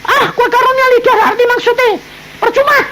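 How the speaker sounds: mock the wife's gift, quick and high; husband jeering at his wife in a high fast voice. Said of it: "ngejek istri nih".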